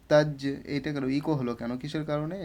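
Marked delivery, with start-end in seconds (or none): 0.1-0.4 "তাজ" with the final j bounced; "তাজ" ending in a short released bounce; echoed qalqalah. Shown as a demonstration. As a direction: echo the j at the end of "তাজ". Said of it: "এই কারণে আমরা ইকো করে পড়লাম".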